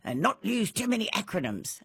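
mildly put-on, fussy complaint; that pedantic complaining voice. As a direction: lightly act out an old person's grumble. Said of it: "you say it in that voice".

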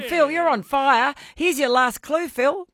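high, loud, drawn-out game-show hype; excited hype. Real, not acted. Quiz host to a caller on a streak, excited. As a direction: build the contestant up with big energy.

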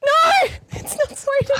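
high, loud shriek of exasperation; over-the-top yell of despair; delirious shout. Real, not acted. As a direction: shriek it, driven delirious by wrong answers. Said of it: "I feel delirious".

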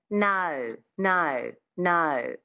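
Australian "no" with a little schwa before the O. Shown as a demonstration. Dialect coach demonstrating the Australian no, in an Australian accent. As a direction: slide into the O of "no" from a short uh sound, Australian style. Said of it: "Adding that little schwa at the beginning of the O".

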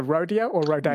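rodeo as ROH-dee-oh, then rodeo as roh-DAY-oh; two pronunciations. Shown as a demonstration. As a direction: contrast rodeo stressed up front with rodeo stressed on DAY. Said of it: "How do they pronounce it".

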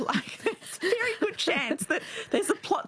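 high, laughing through the words. Real, not acted. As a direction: laugh at the irony as you speak. Laughs at her own story.

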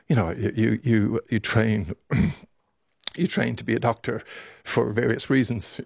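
chokes up mid sentence, slowing as the voice catches; fighting back tears while retelling the attack to the host; voice breaking. Real, not acted. Real emotion catching in the throat. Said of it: "voice might betray me there".

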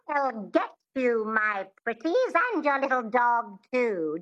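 a light hint of the Wicked Witch, nasal twang; cackly witch line with a bit of twang. Shown as a demonstration. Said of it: "Think of the Wicked Witch from The Wizard of Oz".

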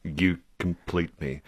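slow, soft and drawn out, lingering on you; swooning movie line. Retold or imitated. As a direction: savor it like a love confession. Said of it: "they're so moved by that amazing moment".

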